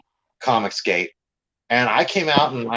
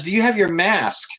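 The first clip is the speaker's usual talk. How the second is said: lightly mimicked worker, pitched higher; imitated officious worker; 6 semitones higher than usual. Shop worker asks the customer about his mask, lightly imitated officious. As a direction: repeat the question in her higher voice.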